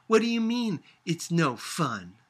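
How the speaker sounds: demanding, offended; a child challenging grandmother; angry. A narrator's reading. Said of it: "she said angrily".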